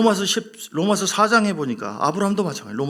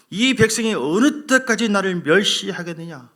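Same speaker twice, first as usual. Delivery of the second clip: louder, slow stern rebuke; scolding God; 3 semitones higher, 5 dB louder than usual. Acted. The Lord rebuking the faithless people, slow stern scolding. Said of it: "주님이 막 야단칩니다".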